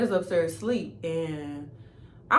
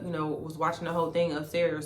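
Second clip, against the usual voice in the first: usual speaking voice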